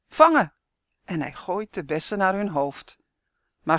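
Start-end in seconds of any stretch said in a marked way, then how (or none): 0.1-0.5 high, loud throwing shout. A narrator's reading. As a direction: yell as he throws. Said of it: "roept meneer Smit". (hard en hoog roepen)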